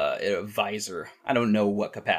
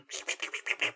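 rewind sound; 10 dB quieter than usual. Pretend. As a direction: mouth noise of a tape rewinding. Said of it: "I'm gonna put in a little rewind sound".

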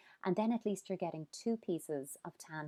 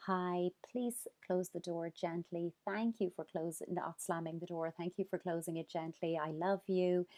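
gentle greeting. Shown as a demonstration. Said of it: "we have to say".

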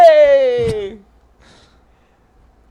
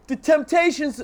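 excited shout; 6 semitones higher, 3 dB louder than usual. Real, not acted. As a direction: shout it out with pride. Bragging about singing all night.

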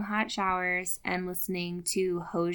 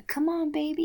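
coaxing; 7 semitones higher than usual. Retold or imitated. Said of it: "You gotta coax it".

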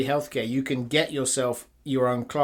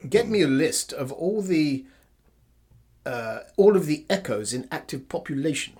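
lightly imitated refined English accent; a touch of Sean Bean's refined English. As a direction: put on a mild, refined English film-star accent. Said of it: "He goes with his refined English accent".

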